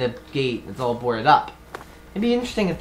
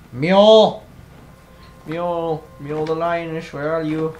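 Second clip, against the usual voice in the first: calling out; 3 semitones higher, 5 dB louder than usual. Real, not acted. Calling out for a character.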